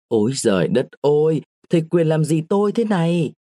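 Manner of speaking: a woman screaming as she's pushed down; crying out for help. A narrator's reading. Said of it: "Tiếng kêu rầm hàng phố". (kêu cứu hoảng hốt, giọng cao)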